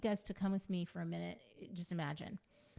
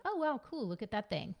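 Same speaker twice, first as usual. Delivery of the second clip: higher, light excited wonder; cheerful distraction; 3 semitones higher than usual. Shown as a demonstration. Parent gently distracting a kid, higher and cheerful. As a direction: point out something fun, lightly. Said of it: "So it sounds more like that".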